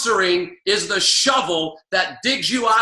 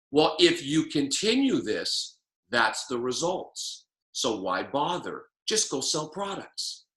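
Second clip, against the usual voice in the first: slow, much softer and lower, giving up; defeated inner voice; 7 semitones lower, 7 dB quieter, slower than usual. Retold or imitated. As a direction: talk yourself out of it quietly. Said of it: "our mind gets tuned into the fact".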